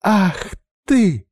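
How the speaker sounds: high, loud angry snap; hissing anger. A narrator's reading. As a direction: scold him through clenched teeth. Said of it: "зашипела Арина". (гневное шипение)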